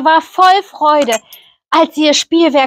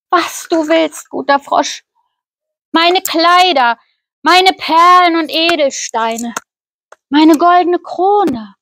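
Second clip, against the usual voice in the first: a higher, lightly voiced young princess, pleading; eager princess; 4 semitones higher than usual. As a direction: offer everything, a touch pleading. Princess offers treasures.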